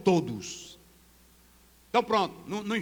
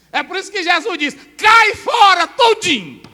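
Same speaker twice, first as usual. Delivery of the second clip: shouted, much higher and louder; preaching shout; 9 semitones higher, 13 dB louder than usual. Acted. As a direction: thunder it at the congregation.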